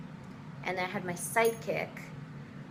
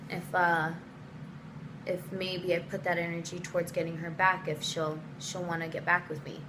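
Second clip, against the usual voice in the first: lightly voiced hesitant boyfriend; quieter, subdued mock confession; imitated boyfriend; 3 semitones lower, 5 dB quieter than usual. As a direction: imitate him breaking it gently. Boyfriend's breakup speech, retold.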